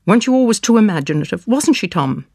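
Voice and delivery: high, fast, frantic accusation; rising hysteria. Acted. Mother rounding on her daughter, fast and high. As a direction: rush it out, pitch climbing.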